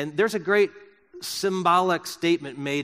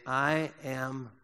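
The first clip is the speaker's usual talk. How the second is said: quiet confident affirmation; 4 semitones lower, 8 dB quieter, much slower than usual. Shown as a demonstration. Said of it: "with this confidence say".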